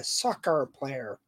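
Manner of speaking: mock American accent. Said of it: "You don't have to say it in that accent".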